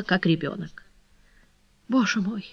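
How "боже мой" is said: soft, broken lament; faint, crushed despair. A narrator's reading. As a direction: murmur it brokenly, close to tears. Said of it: "проговорила она разбитым голосом".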